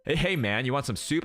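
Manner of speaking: easygoing, friendly "Hey, hey, man"; mild mock casual waiter; laid-back dude. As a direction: offer the soup like a buddy would. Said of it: "If he said it like that".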